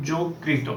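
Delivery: যকৃত said as "জোকৃত", first vowel o not ô; teacher's model pronunciation. Shown as a demonstration. Teacher models যকৃত for students, clear o sound. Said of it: "উচ্চারণ হয়".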